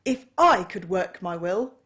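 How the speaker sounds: loud, high indignant roar; indignant outburst. A narrator's reading. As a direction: rage at every merry idiot. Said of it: "said Scrooge indignantly".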